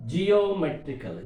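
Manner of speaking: "geometrical" with the weight on MET; stress before the suffix. Shown as a demonstration. Teacher showing students the rule, stress on MET in "geometrical". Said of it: "syllable preceding the suffix is stressed".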